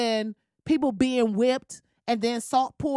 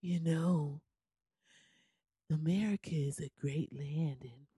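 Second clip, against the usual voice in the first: sleepy, hollow low voice, very soft; mock a boring speaker half asleep; Ben Carson; 8 semitones lower, 10 dB quieter than usual. Mocking a politician's speech, sleepy hollow drone. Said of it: "this is how he sounds".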